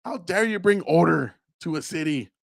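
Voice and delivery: high, hammed-up indignation; mocking angry complaint; mock outrage. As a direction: imitate offended protesters. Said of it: "people got mad, like".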